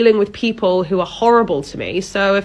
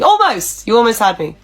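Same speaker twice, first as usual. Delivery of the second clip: mocking; 3 semitones higher than usual. Manager mocking employee's excuse.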